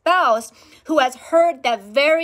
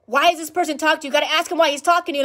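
fast, raised-pitch demands; urgent retold questioning; 4 semitones higher, 4 dB louder, much faster than usual. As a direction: play the alarmed partner, firing questions quickly. Spouse's urgent reaction acted out.

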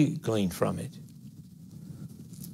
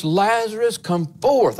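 loud call; 8 semitones higher, 4 dB louder than usual. Acted. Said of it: "he cried with a loud voice".

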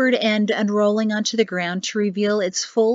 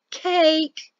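gleeful cry; 8 semitones higher than usual. Acted. Mother-in-law exclaims gleefully.

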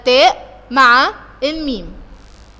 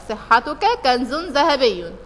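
poem recital; 4 dB quieter, much slower than usual. Shown as a demonstration.

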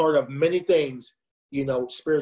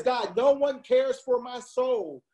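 retold lament; 6 semitones higher, slower than usual. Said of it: "Then he says".

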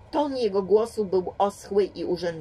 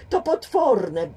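spluttering; 3 semitones higher, 6 dB louder, slower than usual. A narrator's reading. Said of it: "bełkotał".

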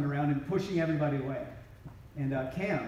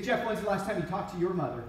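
pointed question; 4 semitones higher than usual. Retold or imitated. Terrell calls Jeff out.

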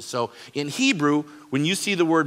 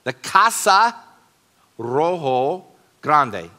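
louder, with a Spanish accent, Rojo Grande drawn out slowly; 2 semitones higher, 6 dB louder, slower than usual. Shown as a demonstration. Pastor showing Spanish word order, with a Spanish accent. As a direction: lean into the Spanish sounds of Casa Rojo Grande. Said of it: "In Spanish".

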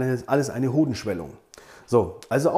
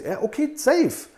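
relieved examiner; 9 semitones higher, slower than usual. Retold or imitated. Examiner's reply acted out.

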